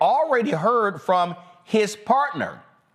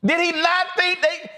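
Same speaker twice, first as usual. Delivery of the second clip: higher, heated and indignant; outraged disbelief; 9 semitones higher than usual. Real, not acted. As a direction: let the outrage spill out over the lie. Host outraged after the video.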